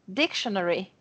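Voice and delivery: "dictionary" repeated as a model, DIC stressed; stress on first syllable. Shown as a demonstration. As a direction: lean on DIC, falling away through "dictionary". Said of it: "têm a sílaba tônica no início".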